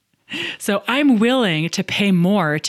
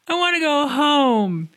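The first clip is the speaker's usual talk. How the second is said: put-on whining child; 8 semitones higher than usual. Parent mimics child after wipeouts, whining. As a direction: plead in a high little-kid voice. Voicing child's complaint on bike outing.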